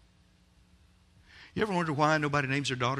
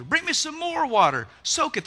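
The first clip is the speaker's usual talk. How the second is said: loud, high calling out; shouted command; 12 semitones higher, 7 dB louder than usual. Acted. Elijah shouting to servants, loud command. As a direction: call for more water with full force.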